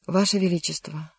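ordinary delivery

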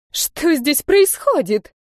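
high, slow outraged cry; indignant shout. A narrator's reading. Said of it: "возмущённо закричала". (возмущённый высокий крик)

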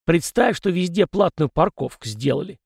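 put-on high, cranky old ghost; a fussy old spirit lecturing. Ghost Kozyrev's voice. (ворчливый старый призрак)

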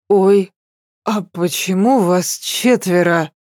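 a tipsy, puzzled "oh" that lifts on the first word; bewildered girl counting double; surprised. Acted. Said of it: "удивилась я".

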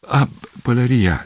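high startled remembering; sudden exclamation. A narrator's reading. Remembering his hat, he exclaims in surprise. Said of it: "exclamă el".

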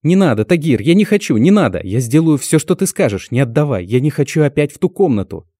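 high, loud desperate pleading; terrified begging. Acted.

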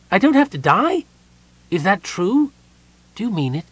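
high, loud, eager kender; excited kender. A narrator's reading. Kender learns he need not die, thrilled and loud. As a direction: kender can hardly believe his luck.

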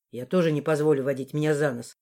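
low, firm man. Acted. Morris warns her, low voice.

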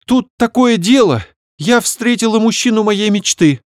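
high, loud excited chatter; rattling off. Acted. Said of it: "затараторила она". (затараторила, высоко)

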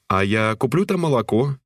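lightly voiced sweet girl; sweet young woman.

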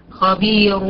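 خبير ending in thick "run"; firm heavy R closing خبير; heavy ra with tanween. Shown as a demonstration. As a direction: sound خبير with a full R and u-n ending. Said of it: "ري ضمتين".

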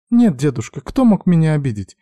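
high, mildly uneasy denial; faltering voice. A narrator's reading. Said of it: "буксовал её голос".

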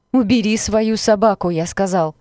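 loud, far-carrying order; thundering demand. A narrator's reading. Stranger orders the girl to call off her dog, thundering. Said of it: "прогремел его голос".

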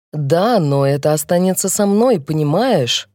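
usual speaking voice

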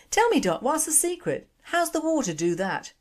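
put-on high, eager Glasgow accent; curious Glasgow wife leaning in; Glasgow woman. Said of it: "Glasgow accent is not good".

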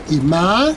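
"ma" pitched upward to the end; rising tone. Shown as a demonstration. Linguist demonstrating the Otomí rising tone on "ma". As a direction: glide "ma" up in pitch. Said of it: "con un tono ascendente".

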